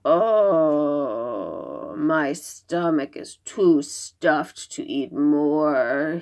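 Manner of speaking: lightly voiced stuffed monster, slow groan; a mild groan, full of noodles. Nian complaining his stomach is too stuffed, mild groan. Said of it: "he groaned".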